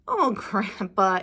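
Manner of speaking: laughing. Acted. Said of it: "Elmer laughed".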